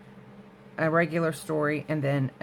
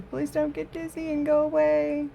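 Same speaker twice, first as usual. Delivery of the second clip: bright teasing plea, pitched way up; playful high plea; 10 semitones higher than usual. Real, not acted. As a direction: coax the viewers playfully not to leave. Playful plea to tilted camera viewers.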